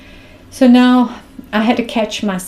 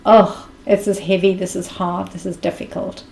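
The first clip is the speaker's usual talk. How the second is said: fading to a breathy defeated murmur; a weary sigh that fades out; heavy, defeated. Retold or imitated. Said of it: "in a place of".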